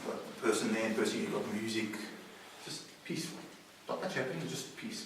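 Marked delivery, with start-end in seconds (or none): 2.6-5.0 soft whisper, much softer; whispered calm. A narrator's reading. Preacher whispering heaven's calm to the congregation. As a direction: hush it like a sleeping room.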